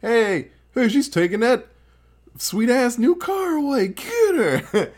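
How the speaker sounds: mock demon mob. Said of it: "They're like".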